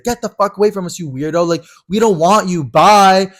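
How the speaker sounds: high, loud catty yell; mock angry shout. Boys telling Rocky to get away, high catty yell. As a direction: bark it like you're shoving him away. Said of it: "slaps the fuck out of him".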